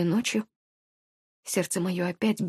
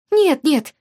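hasty reassurance; 7 semitones higher, 5 dB louder than usual. A narrator's reading. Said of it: "поспешила она меня успокоить".

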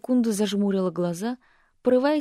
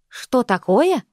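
Что такое thrown up higher and louder; voice raised high; 4 semitones higher, 6 dB louder, slower than usual. Acted. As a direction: echo his words in outrage, high. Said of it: "поднимая голос на целую октаву". (голос выше на октаву, возмущённо)

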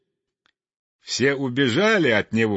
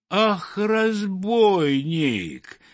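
high, drawn-out cries of outrage; scandalised high wail; indignant outcry; 7 semitones higher, much slower than usual. A narrator's reading. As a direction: exclaim as a crowd cheated by a thief. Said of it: "возмутились все рыбы и все птицы".

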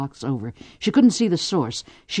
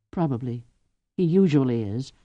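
absent; 2 semitones lower than usual. Acted. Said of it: "Cordelia answered absently".

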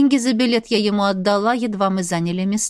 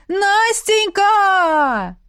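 very slow, drawn-out call, higher and loud; long call; 11 semitones higher, 5 dB louder, much slower than usual. A narrator's reading. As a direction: stretch the name out like a howl. Ex calling from the street. (протяжно и громко)

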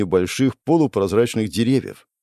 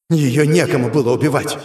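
raised, forceful angry cry; furious denial; 4 semitones higher, 3 dB louder than usual. Acted. Demon attacking the hero, angry anguished outcry. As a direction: throw it at the enemy in anguish. Demon keeps shouting in fury.

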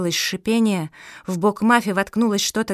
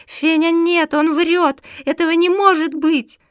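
high, loud desperate protest; shouting; 8 semitones higher, 6 dB louder than usual. A narrator's reading. Mafi tells Fenya the voice lies, shouting high. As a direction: shout it down in disbelief. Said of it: "крикнула Мафи".

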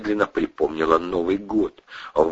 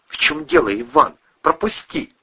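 demanding woman; 9 semitones higher than usual. A narrator's reading. Кристина требует пропустить.

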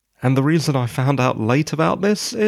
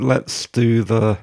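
hoarse, just woken from a nap; croaky, rough morning voice. Real, not acted. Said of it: "sorry if I sound a bit croaky".

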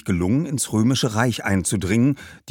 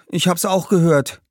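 lightly voiced boy, higher; boy's voice; 9 semitones higher, 4 dB louder than usual. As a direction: answer as a young boy. Boy answers the jubilant ghost. (leicht angedeutete Jungenstimme)

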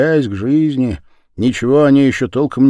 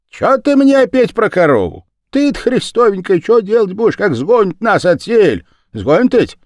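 put-on much higher and louder, scolding old village woman; exasperated elderly peasant woman, raised voice; indignant old woman; 6 semitones higher, 5 dB louder than usual. A narrator's reading. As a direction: scold her friend for fretting about the cow. Darya scolds Katerina, much higher.

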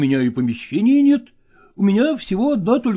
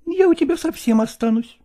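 higher, eager and affectionate; eager actress; 12 semitones higher than usual. A narrator's reading. Nastina eagerly promises to come to Lagorsky, higher affectionate voice. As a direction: promise it gladly. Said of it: "сказала Настина".

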